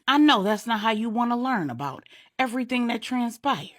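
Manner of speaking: insistent scolding. Acted. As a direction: send him off to where he belongs. Wife urging husband to his meeting.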